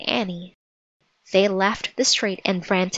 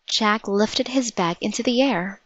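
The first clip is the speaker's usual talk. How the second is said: plain reading voice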